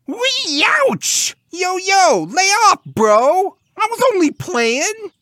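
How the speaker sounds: very high, loud pained pig squeal; piercingly high bro-talking piglet. A narrator's reading. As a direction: squeal in protest like a hurt cartoon pig. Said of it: "turning his swoons into squeals".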